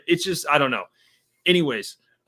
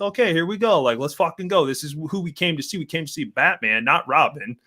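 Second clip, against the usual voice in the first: hyped up; 4 semitones higher than usual. Retold or imitated. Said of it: "and I'm like".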